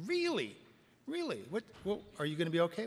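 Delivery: hammed-up surprise from the sponsee; mock surprise. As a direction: fake concern before moving on. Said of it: "he says".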